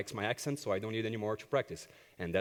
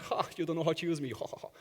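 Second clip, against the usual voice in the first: mocking guitar; 5 semitones higher, faster than usual. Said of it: "the guitar is laughing at you".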